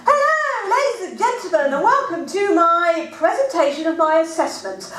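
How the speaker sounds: mock-grand presenter opening. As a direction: greet the audience like a TV host. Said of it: "I've got to entertain".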